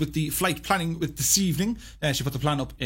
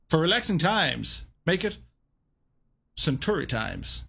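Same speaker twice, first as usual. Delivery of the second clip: Bill Murray. Acted. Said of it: "Bill Murray".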